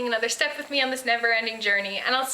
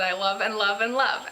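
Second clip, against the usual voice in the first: sarcastic. Real, not acted. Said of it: "I say that sarcastically".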